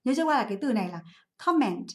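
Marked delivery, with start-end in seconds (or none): 1.4-1.9 "comment" with the first syllable stressed. Shown as a demonstration. Teacher showing students the stressed syllable, "comment" stressed on COM. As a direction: hit COM in "comment", lighter second syllable. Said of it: "âm tiết số một nhá".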